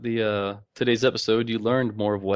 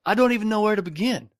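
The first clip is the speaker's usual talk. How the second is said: put-on reading voice; 11 semitones higher than usual. Reading listener post in put-on voice.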